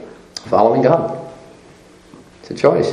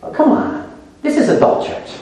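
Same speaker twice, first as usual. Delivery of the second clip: laughing breathy tease; 6 semitones higher, 4 dB quieter than usual. Real, not acted. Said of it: "teasing rebuke".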